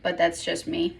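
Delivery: talking with food in mouth; mouth full. Real, not acted. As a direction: speak around a mouthful. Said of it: "Sorry, I got something in my, my mouth".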